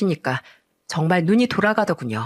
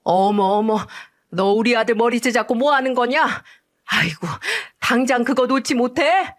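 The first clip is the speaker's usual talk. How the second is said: shocked, furious mother-in-law; 4 semitones higher than usual. Acted. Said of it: "깜짝 놀라며 손을 벌벌 떨더군요".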